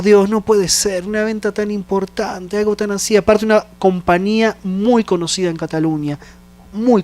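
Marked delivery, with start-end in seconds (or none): 0.0-3.2 lamento a Dios. Retold or imitated.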